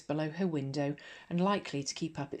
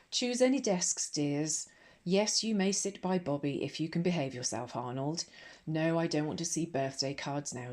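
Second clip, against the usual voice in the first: bright, brisk schoolmistress voice; a cheery no-nonsense headmistress. Acted.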